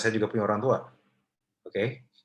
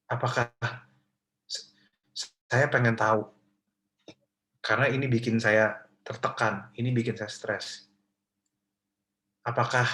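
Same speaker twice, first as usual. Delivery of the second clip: gentle pleading question. Shown as a demonstration. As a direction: ask carefully so mom won't get angry. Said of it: "Makanya pelan-pelan ngomongnya".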